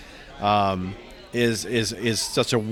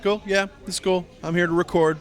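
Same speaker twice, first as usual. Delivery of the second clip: mock cool professional; 7 semitones higher than usual. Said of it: "I'm showing my professional demeanor".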